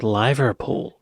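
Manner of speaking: LIE-ver-pool for "Liverpool"; long-I pronunciation. Shown as a demonstration. Viewer puzzles over the city's name, saying "Liverpool" as LIE-ver-pool. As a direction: say "Liverpool" with "Liver" rhyming with "diver". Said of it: "I wonder why it's not called".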